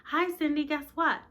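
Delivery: high, loud eager greeting; bursting to share big news; excited. Acted. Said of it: "sounding very excited".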